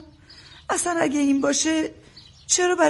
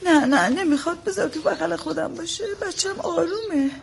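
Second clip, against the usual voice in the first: higher, tearful refusal; 4 semitones higher than usual. Acted. Crying mother refusing to hand over her baby, tearful. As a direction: insist on keeping the baby while near tears.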